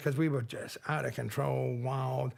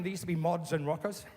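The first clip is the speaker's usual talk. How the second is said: usual speaking voice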